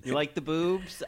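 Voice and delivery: high-pitched catchphrase imitation; Dina. Repeating the cast member's tagline for laughs, high mimicry. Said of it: "your tagline on the show is".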